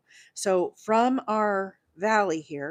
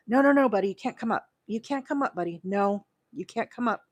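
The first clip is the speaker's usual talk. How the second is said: talking to the puppy; 2 semitones higher, faster than usual. Real, not acted. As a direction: shoo the dog off gently but firmly. Telling the puppy to stay down.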